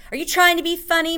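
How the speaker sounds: high-pitched, quick prim wife; prim, offended high voice. A narrator's reading. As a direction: ask it primly in a high, hurried voice. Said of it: "very prim".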